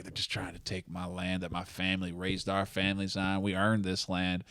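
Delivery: low, measured rancher voice; Kevin Costner's rancher. Retold or imitated. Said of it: "which is Kevin Costner's family ranch".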